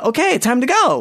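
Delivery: unruffled, cheerful, breezy, very high voice. Retelling how a friend got everyone to leave, imitating Stephanie's calm tone. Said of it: "she didn't freak out".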